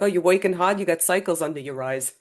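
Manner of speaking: put-on old-time Brooklyn accent; old Brooklyn accent, as a demonstration; grandfather's old Brooklyn accent. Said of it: "if I speak like my grandfather did".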